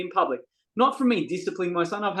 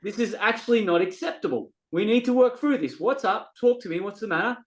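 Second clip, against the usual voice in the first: raised firm voice; 3 semitones higher than usual. Retold or imitated. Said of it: "my tone is up".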